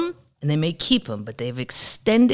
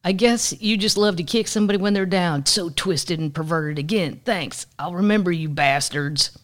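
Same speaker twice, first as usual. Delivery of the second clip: mock bitter rant; 4 semitones higher, 5 dB louder than usual. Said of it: "What cartoon show?".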